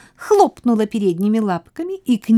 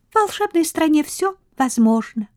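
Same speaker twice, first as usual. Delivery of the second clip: calm; 9 semitones higher than usual. A narrator's reading. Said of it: "спокойно сказала Рамина".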